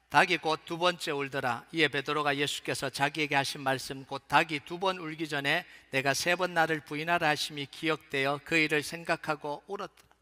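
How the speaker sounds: steady, projected Bible reading; measured recitation in a firm voice; scripture reading. Acted. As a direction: lead a congregation through the verses aloud. Reads the scripture passage.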